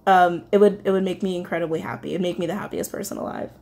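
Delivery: fighting back real tears as she speaks; getting emotional. Real, not acted. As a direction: voice catching, near tears. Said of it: "getting emotional".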